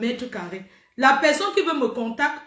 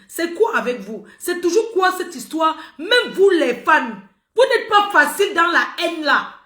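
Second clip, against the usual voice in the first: raised, higher voice, louder with real annoyance; exasperated scolding; 5 semitones higher, 4 dB louder than usual. Real, not acted. Woman scolding her fans over hateful comments, exasperated. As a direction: tell the fans off, loud and fed up.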